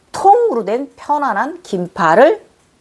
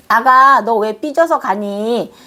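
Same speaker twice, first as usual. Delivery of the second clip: teasing call; 2 semitones higher than usual. Retold or imitated. Calling after the sulking fairy child, fond and teasing. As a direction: call after her fondly, tease her sulking. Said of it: "가는 애기 뒤통수에 대고 이랬습니다".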